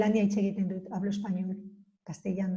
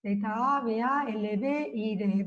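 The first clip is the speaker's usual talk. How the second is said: spelled out slowly; slower than usual. Shown as a demonstration. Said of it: "se deletrea".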